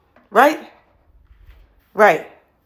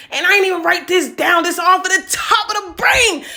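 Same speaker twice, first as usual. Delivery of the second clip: excited laughing aside; 9 semitones higher, 3 dB louder than usual. Real, not acted. Poet boasts mid-performance, laughing.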